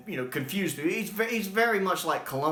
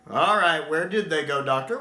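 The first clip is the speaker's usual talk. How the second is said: loud, pushy question; demanding; 4 semitones higher, 6 dB louder than usual. Retold or imitated. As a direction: press him for an answer. Ben demanding.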